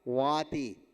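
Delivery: वाति opening on v, not b. Shown as a demonstration. Teacher correcting what listeners heard, v not b. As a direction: say वाति with a distinct v sound. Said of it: "बाति नहीं दिया".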